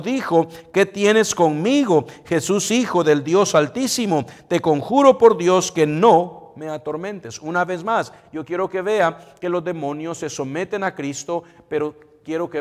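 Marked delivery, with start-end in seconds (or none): 0.7-7.4 panicked plea. Acted. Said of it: "con temor, temblando, con pánico".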